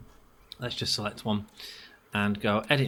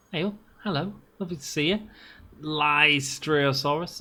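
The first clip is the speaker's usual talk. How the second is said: cooing greeting; 4 semitones higher than usual. Acted. Greeting cute dinosaurs.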